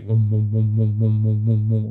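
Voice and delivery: rhythmic droning hum; imitated vibration hum. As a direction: mimic a throbbing vibration with your voice. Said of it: "like, vibration".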